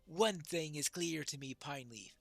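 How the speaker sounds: measured, declaimed character reading; lightly voiced dwarf prince. Dwarf prince weighs the call to moot, lightly declaimed. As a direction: deliver it as a lightly acted proud dwarf.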